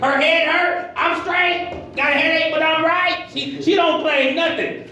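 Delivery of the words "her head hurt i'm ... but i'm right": high-pitched imitation of upbeat wife; mock insistent positivity. Preacher imitating his positive wife, high mock insistence. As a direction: insist brightly that all is fine, imitating.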